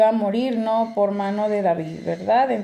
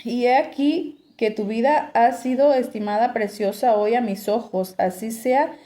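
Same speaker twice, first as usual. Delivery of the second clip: scripture reading; 2 semitones higher than usual. Acted. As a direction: read the passage out to the congregation. Reads scripture passage aloud. (lectura bíblica en voz alta)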